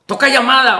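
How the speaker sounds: mildly puzzled retold questioning; a touch of bewildered surprise; taken aback. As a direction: imitate someone thrown by an unexpected call. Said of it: "se sacó de onda".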